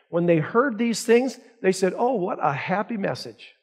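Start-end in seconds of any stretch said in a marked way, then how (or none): 2.0-3.5 sarcastic mock crowd.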